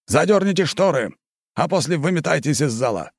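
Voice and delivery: shouted order. A narrator's reading. Marquis orders the waiters out, shouting. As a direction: shout the servants out of the room. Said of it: "выкрикнул".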